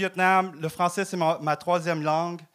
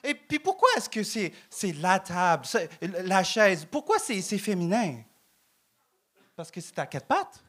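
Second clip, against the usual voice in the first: a higher, hammed-up Québécois accent; mock Québécois accent; 4 semitones higher than usual. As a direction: turn into a pure-laine guy from Lac-Saint-Jean, a touch higher. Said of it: "j'ai perdu mon accent".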